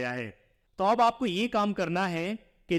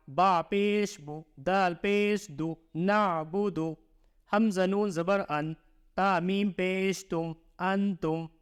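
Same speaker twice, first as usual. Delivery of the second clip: slow sing-song letter-by-letter reading; measured teacher's drill, syllable by syllable; Qaida spelling recitation; slower than usual. Shown as a demonstration. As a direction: chant each letter and vowel sign for the pupil.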